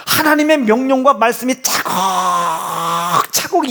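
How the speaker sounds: slow, voice crying on 하나님의 명령과 말씀이; tearful preaching. Real, not acted. Preacher near tears pleading with the congregation, slow and crying. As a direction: let the words break with emotion, slowly.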